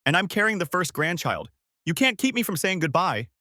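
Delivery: high, insistent outcry; screeched protest. A narrator's reading. Sister pushing past the man blocking her, screeched protest. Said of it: "she screeched".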